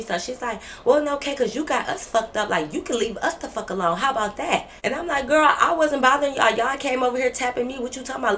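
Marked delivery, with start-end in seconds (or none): 0.8-4.7 imitated feisty comeback. Roommate snapping back to match storyteller's energy, feisty imitation. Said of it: "She tried to match my energy". 5.3-8.4 higher, louder opening that eases off; heated retort. Retold or imitated. Storyteller firing back at roommate who approached, heated retort.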